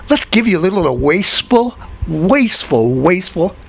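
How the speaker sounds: imitating a politician's lisp; Barney Frank lisp. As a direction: lisp the word wasteful as weɪspəl, a mocking impression. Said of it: "I'm just doing my Barney Frank imitation".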